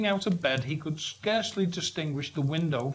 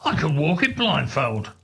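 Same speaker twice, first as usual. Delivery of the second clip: fervent; 4 dB louder than usual. Acted. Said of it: "cried Scrooge with fervour".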